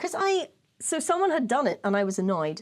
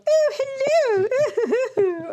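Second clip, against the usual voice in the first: high, hammed-up English hello; mock a posh English accent, pitched way up; proper English accent; 14 semitones higher, 6 dB louder, much slower than usual. Mocking an English person to their face, exaggerated English accent. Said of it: "proper English accent like you just did".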